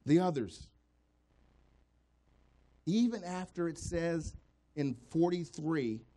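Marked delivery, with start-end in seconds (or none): 0.0-0.7 emphatic refrain. Acted. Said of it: "repeated refrain".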